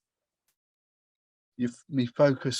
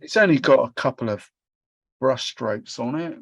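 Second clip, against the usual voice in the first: clip-on mic; 5 dB louder than usual. Real, not acted. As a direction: suddenly close and loud on a clip-on mic. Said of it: "I can hear you now".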